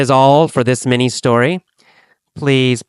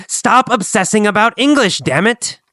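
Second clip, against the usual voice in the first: mild scolding; 7 semitones higher than usual. Acted. Gabriel scolds Kathy again.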